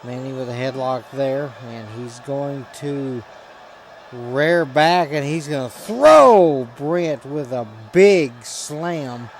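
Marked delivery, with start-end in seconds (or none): 4.1-9.3 loud, drawn-out ringside call; excited slam call. Real, not acted. Commentator calls a big throw for the audience, excited. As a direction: belt it out slowly, stretching the big move.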